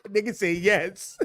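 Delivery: slow, laughing read of chat's answer; drawn out through a laugh, amused defeat. Real, not acted. Streamer reads chat's yes aloud, slowly and laughing.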